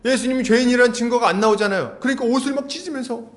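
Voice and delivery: usual speaking voice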